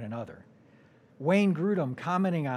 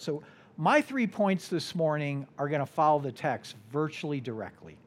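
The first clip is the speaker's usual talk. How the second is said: ordinary delivery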